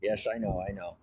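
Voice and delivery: talking round a cigarette in the mouth. Real, not acted. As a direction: speak with a cigarette between the lips. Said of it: "I have a cigarette in my mouth".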